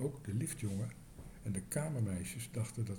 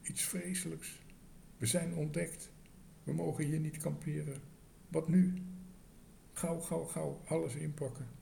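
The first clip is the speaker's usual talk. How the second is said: desperate; 6 semitones higher than usual. A narrator's reading. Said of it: "Tos was radeloos".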